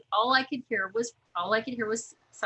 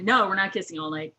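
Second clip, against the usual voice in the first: laughing quote; 4 dB louder than usual. Retold or imitated. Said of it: "There never would have been an end to".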